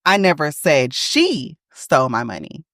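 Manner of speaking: she lifted and held; stress on she. Shown as a demonstration. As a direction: point at the word she. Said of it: "It's just that she didn't do it".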